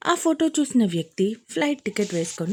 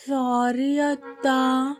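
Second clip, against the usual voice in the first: put-on cute child; 3 semitones higher, much slower than usual. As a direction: say sorry sweetly like a good boy. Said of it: "అన్నాడు ముద్దుగా".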